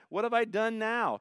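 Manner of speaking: high-pitched protest at a scolding; exasperated younger brother. Acted. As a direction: protest to your big brother, voice lifted.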